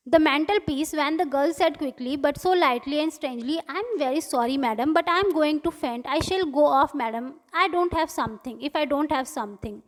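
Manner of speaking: slow, careful read-aloud of the English text; story reading. A narrator's reading. Teacher reading the story slowly to students. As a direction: read each line out slowly for the class.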